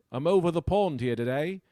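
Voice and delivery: put-on English accent. Comic opening the show as an Englishman, English accent. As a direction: play a hammy Englishman's accent. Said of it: "did Omicron give you an accent".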